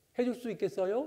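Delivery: rise at the end of 있겠어요. Teaching kind-sounding speech by raising the sentence ending, rising at the end of 있겠어요. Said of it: "말꼬리를 올리면".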